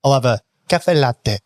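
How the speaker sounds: exaggerated fake Italian cafe latte; mock posh Italian order; Aussie bogan putting on Italian. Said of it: "Imagine I'm a bogan Australian".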